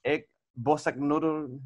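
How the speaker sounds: halting, hammed-up Asian accent; badly faked Asian accent, played for laughs; stumbling attempt at an Asian accent; mock Asian accent. Shown as a demonstration. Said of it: "I try to do an Asian accent".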